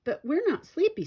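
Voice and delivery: high, loud protest; whiny protest. A narrator's reading. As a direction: push back loudly against bedtime. Twin protests bedtime.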